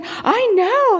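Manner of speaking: put-on high, pleased small-child voice; proud little boy. Little boy answering the runner's praise, proud. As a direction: imitate a chuffed little kid.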